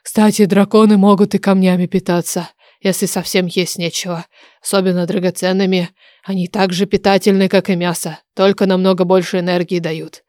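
a hint of a know-it-all oracle; matter-of-fact dragon oracle. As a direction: explain casually as an old dragon. Oracle explains to the heroine.

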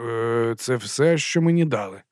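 slow, hesitant mumbling; mumbled. Acted. Nervous Lucas answering his boss, slowly mumbled. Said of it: "пробелькотів Лукас".

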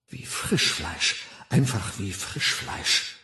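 brooding inner thought. Acted. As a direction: dwell bitterly on each word. Figur grollt in Gedanken. (leise und langsam grollend)

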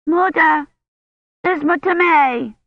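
put-on high, loud child calling for her mother; frightened child shouting for mother; crying child. A narrator's reading. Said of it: "a child's voice crying".

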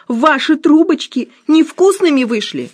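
Musya wails that the pastries failed, high; Musya's high voice. Acted. Musya complains to husband.

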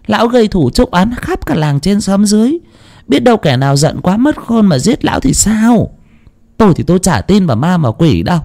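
high-pitched protesting wife; incredulous wife. Acted. (giọng bà vợ cao vút, ngạc nhiên trách chồng)

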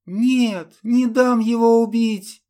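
high, loud furious defiance; fierce outburst. Acted. Ludmila defies the undead knight with a high, loud cry. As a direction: hurl it at him, fierce and shrill. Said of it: "выпалила грозно девушка".

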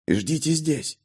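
soft, hushed order; barely audible. A narrator's reading. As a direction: keep it just above a breath. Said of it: "едва слышно произнёс солдат".

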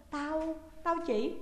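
a touch of startled fumbling; startled stammer. A narrator's reading. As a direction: trip over the words, caught off guard. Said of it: "giật mình lúng túng".

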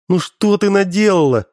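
high, lightly acted wail; a touch of tearful despair; mild mock sobbing. A narrator's reading. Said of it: "зарыдала Алёна".

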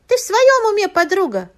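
shrieked. A narrator's reading. Friend shrieks at the accusing widow in outrage. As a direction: shriek it with своём hit hard. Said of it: "взвизгнула Бузинова".

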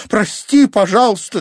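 very high, loud rising plea; girl frantically begging her boyfriend, very high and loud; desperate plea. Acted. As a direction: wail for forgiveness. Apologising to injured boyfriend.

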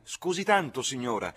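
high, loud, courteous call; sweetly called apology. A narrator's reading. Coachman answers the lady at the window, calling sweetly. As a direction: call back up just as sweetly. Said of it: "con accento non meno dolce del suo".

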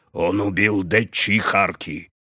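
slow dull repetition; stubborn, flat insistence. A narrator's reading. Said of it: "повторил тупо, упрямо".

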